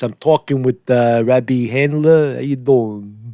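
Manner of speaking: a hint of a New Yorker drawling the introduction; New York accent. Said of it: "They talk like this".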